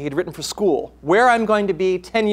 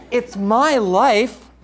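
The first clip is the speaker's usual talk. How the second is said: laughing; 6 semitones higher, 5 dB louder, much slower than usual. Acted. Son insisting in argument.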